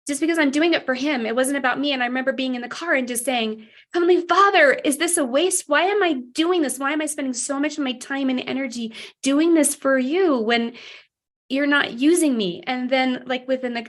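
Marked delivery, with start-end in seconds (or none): 3.9-12.6 loud pleading. Retold or imitated. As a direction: plead out loud alone in the car. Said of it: "I was, like, loud in the car".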